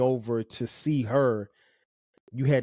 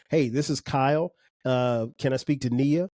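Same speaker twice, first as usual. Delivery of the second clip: polite caller. Shown as a demonstration. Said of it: "Like that".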